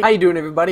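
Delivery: "you" hit high and loud; stress on YOU. Shown as a demonstration. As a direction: push the word "you" up. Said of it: "how I warm up before my videos".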